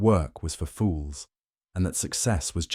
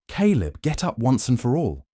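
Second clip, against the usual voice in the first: raised voice calling him up; shouting; 6 semitones higher, 3 dB louder than usual. A narrator's reading. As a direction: call out sharply to wake him. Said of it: "she would shout every morning".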